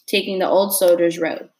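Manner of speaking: steady read-aloud narration for a class; story reading. A narrator's reading. Teacher reading a novel chapter to her class, steady narration.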